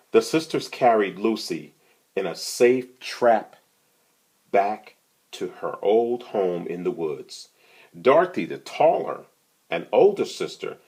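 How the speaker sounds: gentle storybook read-aloud; reading to children. A narrator's reading. Reader to children, telling the mouse tale, storybook voice. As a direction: read it like a bedtime picture book. Reads picture book aloud.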